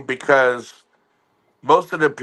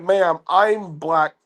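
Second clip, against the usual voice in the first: laughing reply; much slower than usual. Retold or imitated. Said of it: "And I'm like".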